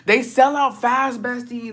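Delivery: high and slow, teasing a friend. Acted. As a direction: draw it out up high, playful. Reacting to a comment, teasing.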